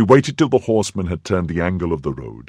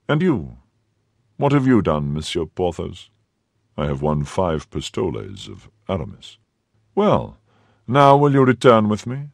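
cardinal. Acted. The cardinal asks Porthos where Athos is, commanding.

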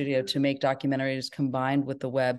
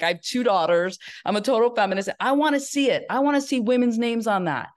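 excited; 7 semitones higher, 4 dB louder than usual. Retold or imitated. Creative breakthrough, inner excitement.

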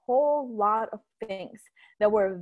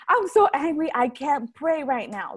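retold anger; 3 semitones higher, 3 dB louder than usual. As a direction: vent frustration, imitating your angry self. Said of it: "just in an angry mode".

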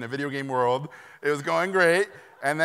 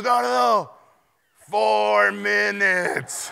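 imitating Guillermo; 8 semitones higher, 9 dB louder, much slower than usual. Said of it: "And he goes".

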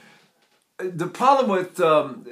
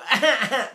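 higher, mock baby wail; imitated baby cry; 7 semitones higher than usual. Shown as a demonstration. Teacher showing how people imitate babies, mock crying. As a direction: bleat like a baby. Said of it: "When we imitate, imitate babies".

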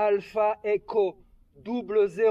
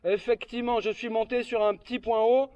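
over walkie talkie. Real, not acted. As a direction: voice through a handheld radio. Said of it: "avec mon talkie-walkie".

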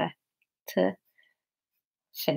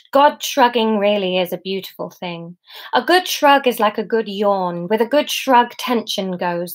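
lilting, emphatic storybook reading; story narration; 3 semitones higher than usual. A narrator's reading. Author describes God shrugging to listeners, expressive story narration.

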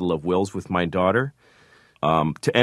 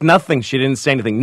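loud, higher acted denial; hasty denial; 6 semitones higher, 6 dB louder, faster than usual. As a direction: blurt out a cover-up to a child. Covering up to his daughter.

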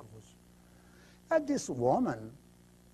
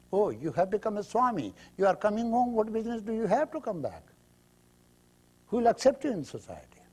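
mocking, raised and quick; scornful family; 8 semitones higher, faster than usual. Family scornfully turning away the returning monk, raised and quick.

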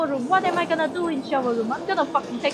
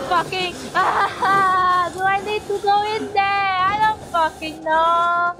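panicked wailing; 4 semitones higher, slower than usual. Real, not acted. Panicking about going in.

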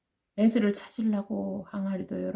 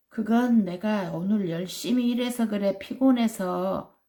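tiger making excuses; 3 semitones higher than usual. Acted. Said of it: "이렇게 변명을 한 거야".

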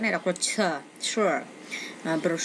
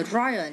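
"royal" with ROY stressed; stress on first syllable. Shown as a demonstration. Teacher showing word stress to students, "royal" stressed at the start. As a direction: slowly lean on the opening syllable of "royal". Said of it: "nhấn âm đầu luôn".

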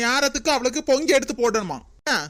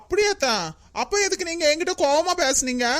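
surprised; 4 semitones higher than usual. Acted. Daughter-in-law hears the truth.

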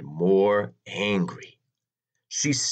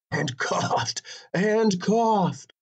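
drawn-out repetition; 10 semitones higher, slower than usual. A narrator's reading. Narrator stretches the repeated coughing.

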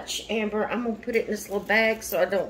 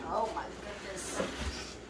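breathless awe; 12 dB quieter than usual. Real, not acted. Overcome by the gifts.

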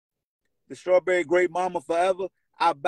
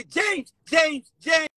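retold shouting; 11 semitones higher, 4 dB louder, much slower than usual. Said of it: "I say".

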